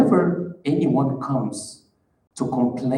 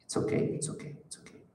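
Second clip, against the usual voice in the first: whispered, falling away to nothing; dismissive reassurance; 11 dB quieter, faster than usual. Retold or imitated. Leader quietly dismissing complaints with a whisper. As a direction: breathe it out, brushing the matter off. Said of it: "wear a mask and say".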